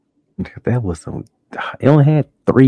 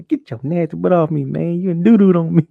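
higher, hammed-up grossed-out killer; mock disgusted Freddy; 8 semitones higher than usual. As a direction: complain like a disgusted villain. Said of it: "Freddy gonna".

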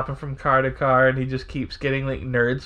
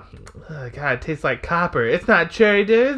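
mock horror; 2 semitones higher than usual. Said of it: "and you're like".

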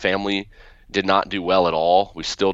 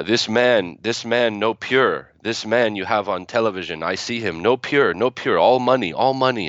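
grandmother's broken English; 3 semitones higher than usual. Retold or imitated. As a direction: scold in imitated broken English, Middle Eastern accent. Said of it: "in her broken English".

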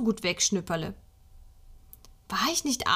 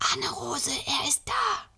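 high, bursting with excitement, near tears; excited; 7 semitones higher than usual. Acted. Boy telling his sister Nikolaus has come, excited and near tears. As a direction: blurt it out, overwhelmed. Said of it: "vor lauter Aufregung an zu weinen".

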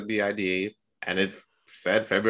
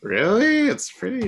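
much higher, loud disbelieving "Really?"; incredulous; 13 semitones higher, 6 dB louder than usual. Real, not acted. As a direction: shoot up in pitch, amazed. Surprised reaction to Boston Pizza.

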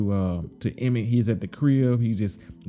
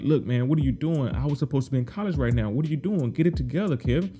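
big sister scolding; 3 semitones higher than usual. Retold or imitated. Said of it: "she's trying to give him that big sister talk".

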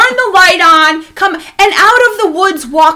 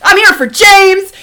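put-on higher, drawn-out girlish voice; imitated girl; 4 semitones higher, 4 dB louder, slower than usual. Girl with vodka asking for James, imitated voice.

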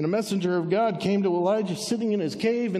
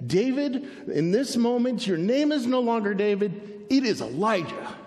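lightly voiced God, pitched up; a firm, higher pronouncement; 5 semitones higher than usual. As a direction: declare it as God would. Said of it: "I hear God in my voice".

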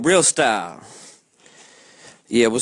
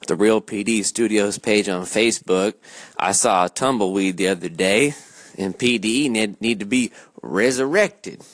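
put-on southern accent; 5 semitones lower than usual. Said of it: "I just went into a little southern accent".

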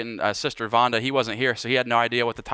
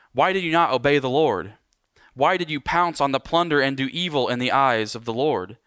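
slightly raised, earnest reading voice; scripture reading; 3 semitones higher than usual. Acted. Pastor reading Samuel's rebuke of Saul aloud, earnest. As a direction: read the prophet's rebuke with conviction.

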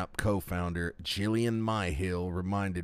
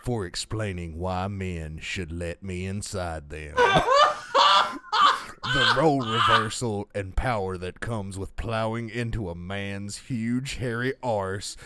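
lightly put-on burly reader, slow. Co-host reads an article aloud to a laughing friend, mock burly voice. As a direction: read it slowly in a mock burly voice. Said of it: "gonna read it in a burly voice".

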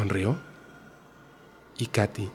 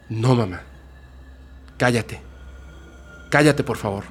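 pleading to stop. Acted. Katy stops her arguing mother.

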